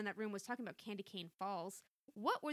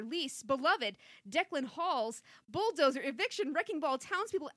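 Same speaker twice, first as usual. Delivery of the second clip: wild unhinged ranting; 5 dB louder, slower than usual. Acted. Overheard fragments building to villain laugh.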